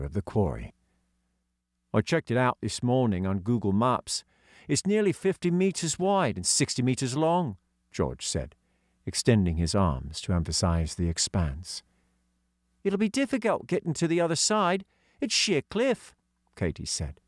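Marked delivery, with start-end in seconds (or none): 1.9-7.6 put-on a touch higher for young George; hint of a kid's voice; lightly voiced schoolboy George; lightly voiced boy. 12.8-16.2 put-on high girl's voice; young girl voicing; girl character voice. Katy voice.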